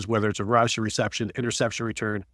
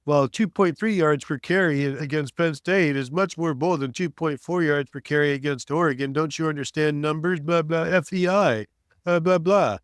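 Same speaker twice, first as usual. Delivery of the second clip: a slightly higher, lightly voiced nerdy stats rant; mocking co-host's stat talk; 4 semitones higher than usual. Host parodies co-host's stat talk, lightly mocking nerdy voice. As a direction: tease him by parroting his numbers obsession. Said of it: "the minutia that you are of".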